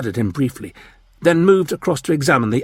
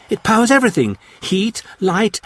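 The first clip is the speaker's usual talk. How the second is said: high, louder, urgent pleading; alarmed; 11 semitones higher, 3 dB louder than usual. A narrator's reading. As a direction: rush it out in alarm. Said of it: "Jan answered in alarm".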